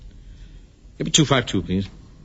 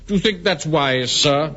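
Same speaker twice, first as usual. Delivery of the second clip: mock supercilious Wilson; 3 semitones higher than usual. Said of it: "in that supercilious voice".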